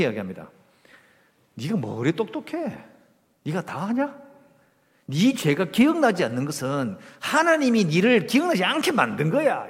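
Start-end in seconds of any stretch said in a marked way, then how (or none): 1.5-9.7 mildly heated rebuke, building louder; accusing attack. Acted. Third friend attacking suffering Job, accusingly. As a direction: press the accusation with rising force. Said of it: "공격을 합니다".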